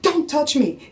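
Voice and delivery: mild mock fury; retold angry snap. Wife retelling how she snapped at her husband. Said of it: "I'm so mad".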